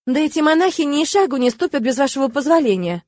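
a touch of heated objection. Acted. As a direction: protest with the voice going up. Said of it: "повысила голос я".

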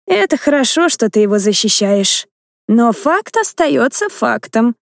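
knowing, slowly drawn-out; meaningful drawl. Acted. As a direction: stretch the last words pointedly. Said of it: "многозначительно протянула леди Аланта".

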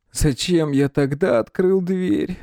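slow, high, near-groaning plea; moaning in despair; almost moaning. A narrator's reading. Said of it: "почти простонал Николай".

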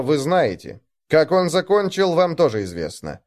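cold, high-pitched threat to a gang; menacing ultimatum. Acted. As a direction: lay out the choice like a threat.

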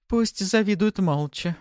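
high, slow chuckling inner voice; amused voice in his head; whispery telepathic voice. A narrator's reading. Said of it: "хохотнула в голове Пафи".

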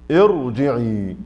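ارجعي drawn out very slowly with a heavy, full-mouthed ra; slow demo. Shown as a demonstration. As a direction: stretch out ارجعي word by word, heavy ra. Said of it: "مثلًا الراء في كلمة". (نطق ارجعي ببطء شديد مع تفخيم الراء)

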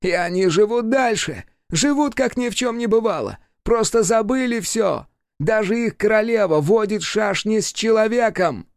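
high, bitter demon voice; demon ranting. A narrator's reading.

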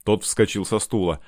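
ordinary delivery

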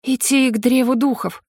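ordinary delivery, nothing marked

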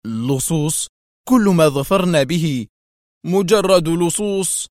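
worked-up, incredulous echo; overwhelming agitation. A narrator's reading. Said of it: "ردد كواليسكي في انفعال جارف".

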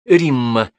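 high, slow breathed-out greeting. A narrator's reading. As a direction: exhale the words in awe. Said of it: "выдохнула она".

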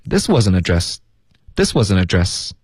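addressed 尾音省略; dropped final d. Shown as a demonstration. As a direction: swallow the ending of addressed. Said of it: "addressed后面的会省略". (addressed后面省略)

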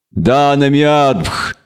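slow, drawn-out reverence; respectful greeting. A narrator's reading. Elf greeting the queen of the fields, reverent. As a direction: intone it slowly with deference. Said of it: "пасительно произнёс Пиловандрель".

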